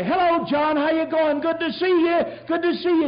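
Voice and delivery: high, loud, friendly hello over the fence; cheery neighbourly greeting. Retold or imitated. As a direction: greet the neighbour brightly, Australian style. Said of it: "I'd go out and I'd say".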